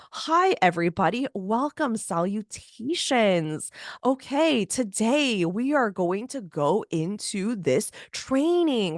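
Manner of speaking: a hint of a stiff, slow, polished presenter; lightly mock a formal stories intro; stiff professional voice. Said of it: "you sound like a completely different person".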